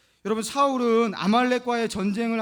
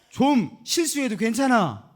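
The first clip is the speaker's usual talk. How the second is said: gentle reassurance; 3 semitones higher, 5 dB louder, slower than usual. Shown as a demonstration. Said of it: "따라해보시기 바랍니다".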